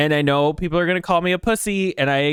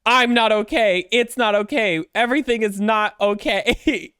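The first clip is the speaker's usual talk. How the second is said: freaking out; 5 semitones higher than usual. Retold or imitated. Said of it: "And I'm like".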